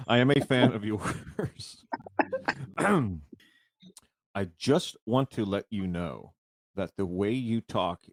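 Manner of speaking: slow reading, laughing; trying to read fan mail without cracking up; reading through laughter. Real, not acted. Reading fan mail aloud, laughing. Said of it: "I'm laughing at what I'm about to read".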